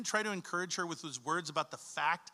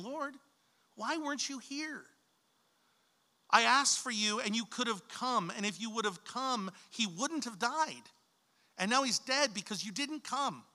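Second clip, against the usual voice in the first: grieving reproach, a little higher; mild accusing plea; 3 semitones higher than usual. Retold or imitated. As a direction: ask him why he wasn't there, hurt and accusing. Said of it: "I think she's saying".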